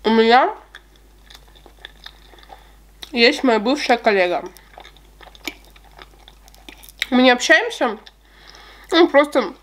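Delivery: talking with mouth full; speaking between bites; chewing cake. Real, not acted. Seen 4: Fork of cake into mouth at 0.5s, then chewing with full cheeks.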